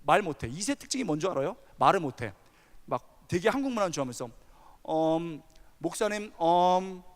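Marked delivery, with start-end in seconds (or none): 4.9-7.0 stretched ums, searching for words; halting, with a rising "you know?"; hesitant filler-laden speech. Retold or imitated. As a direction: imitate a tongue-tied second-generation kid. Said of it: "이러면서 해요".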